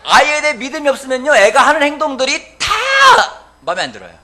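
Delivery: loud, high, driving sermon voice; preaching at full force. Acted. Pastor pressing the congregation about anger, preaching at full force. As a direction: hammer each question at the pews.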